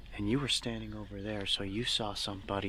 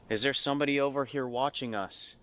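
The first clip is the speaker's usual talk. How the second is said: talking to a ghost; 4 semitones higher than usual. Real, not acted. Calling out to spirits for EVP.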